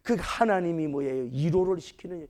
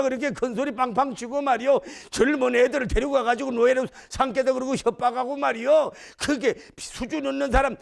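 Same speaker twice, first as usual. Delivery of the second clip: higher, insistent telling-off; confident scolding; 5 semitones higher than usual. Acted. Debtor telling off a bullying creditor, bold scolding. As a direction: dress the creditor down, pitch raised. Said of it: "이러던 사람이 막 당당하게".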